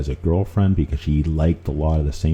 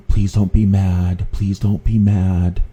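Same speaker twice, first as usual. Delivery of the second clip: slow, higher pleading voice; pleading girlfriend; 5 semitones higher, 4 dB louder, slower than usual. Retold or imitated.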